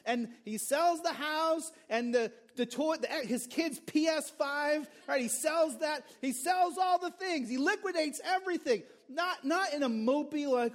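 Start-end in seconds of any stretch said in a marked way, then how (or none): 2.7-10.5 preacher caught up in the man's joy; excited. Real, not acted. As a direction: build the joy up. Joyful man liquidating everything.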